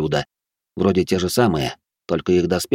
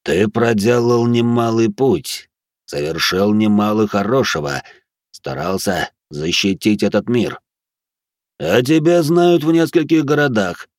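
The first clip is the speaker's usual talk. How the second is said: booming otherworldly guardian, slow, louder; eldritch horror; 4 semitones higher, 3 dB louder than usual. Acted. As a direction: proclaim it like an ancient guard. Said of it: "Громогласный, глубокий, даже в какой-то степени потусторонний голос". (громогласный потусторонний голос стража)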